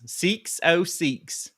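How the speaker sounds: very slow, high hillbilly drawl; hillbilly accent. Retold or imitated. Coworker mimicking customers' phone numbers, hillbilly accent. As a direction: stretch "six" toward "seeks", hillbilly style. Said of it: "the redneck hillbilly accent".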